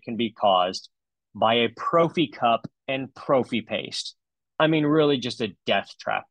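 a hint of an aggrieved patient; lightly hammed-up reading of a complaint; patient's voice. Dentist mocking a review about painful polishing, lightly impersonating the patient. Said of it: "the voice of the patient".

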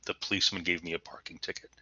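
emotionally neutral, quick and soft; matter-of-fact. Shown as a demonstration. Teacher showing a neutral tone to students, matter-of-fact. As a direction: say it quickly, with no feeling. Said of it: "emotionally neutral if I just say it that way".

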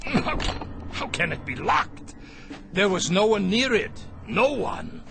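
rising panic. Acted. Trapped, door mysteriously locked.

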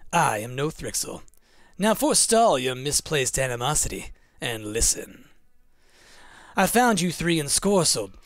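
haughty, measured creature, slightly low; lightly played lofty storybook figure; Mothman. Reads Mothman's speech aloud.

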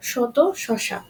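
each শ in শত, শশা a clear sh; palatal sh. Shown as a demonstration. Teacher models example words apart, শত, শশা with palatal sh. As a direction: say শত, শশা with "sh": "shoto, shosha". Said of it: "স এর উচ্চারণ হচ্ছে".

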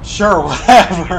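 dry laughing brush-off; sarcastic laugh. Real, not acted. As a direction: laugh it off, unimpressed. Sarcastic reply to game character.

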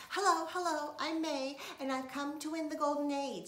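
high, loud eager greeting; loud pushy little girl; bubbly May. A narrator's reading. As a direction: barge in beaming and loud.

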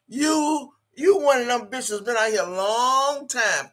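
real shout calling her out. Real, not acted. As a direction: yell it at her across the chat. Ranting at the con artist.

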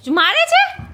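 high, squeaky mock-surprised question; teasing disbelief. Real, not acted. Mother teasing son's claim. (દીકરાની વાત પર ઊંચા અવાજે ચીડવતું આશ્ચર્ય)

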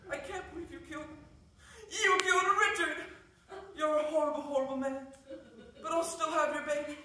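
soap opera. Acted. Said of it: "you're set on that soap opera".

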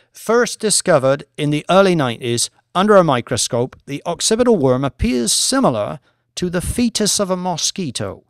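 a lightly voiced academic lecturer, measured and assured; professor presenting. Professor lecturing the traders, calm and assured. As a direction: present the research to the bored bankers.

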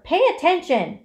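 high, loud command; urgent scream. A narrator's reading. Pig to dazed rat, urgent scream. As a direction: yell it to shake him awake. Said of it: "screamed Wilbur".

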